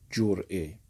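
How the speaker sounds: جرعه said with o, jor'e; first pronunciation. Shown as a demonstration. Teacher showing students the first reading, جرعه with o.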